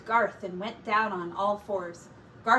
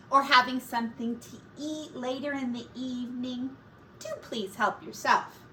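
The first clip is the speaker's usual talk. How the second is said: lightly voiced Missus Pig. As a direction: give the sitter friendly instructions. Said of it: "Missus Pig talking to sitter".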